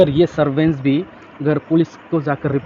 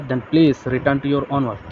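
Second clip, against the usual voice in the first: gentle; much slower than usual. Shown as a demonstration. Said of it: "Hana said gently".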